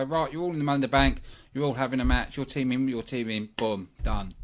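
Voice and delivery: fast, dismissive rattling off of orders; mock lazy booker. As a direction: rush through it like a booker who can't be bothered. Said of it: "Don't just go".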